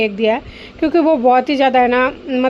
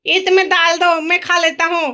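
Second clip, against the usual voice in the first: lightly voiced little boy, higher pitch; imitating child; 5 semitones higher than usual. Mother repeats her child's bargain back, lightly mimicking. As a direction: parrot the child's words a bit higher.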